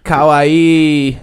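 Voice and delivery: high, cutesy anime squeal; overacted anime dub. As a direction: gush it like an anime fan. Anime voice bit, cute word.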